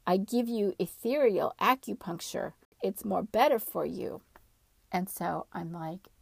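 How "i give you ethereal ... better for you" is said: insistent, louder at the start; adamant. Retold or imitated. Female spirit ordering her to roll over, adamant. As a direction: insist firmly, imitating a stubborn order. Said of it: "she gets adamant and she says".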